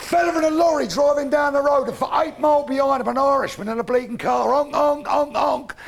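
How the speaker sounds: loud, punchy joke telling; comic bellowing the lorry joke setup. Real, not acted. Comic builds the joke loudly.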